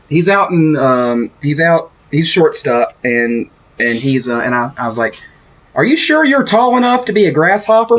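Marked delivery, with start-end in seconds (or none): 5.7-8.0 higher-pitched mock taunt at a player; retold heckle. Fan retelling his heckle of a short shortstop, teasing taunt. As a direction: re-enact the shouted jibe without really shouting. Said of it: "I shouted at him".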